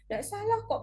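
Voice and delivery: soft-edged, high reassurance to a pupil; reassuring. Acted. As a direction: tell a child it's fine, voice lifted. Reassures pupil about dialect word.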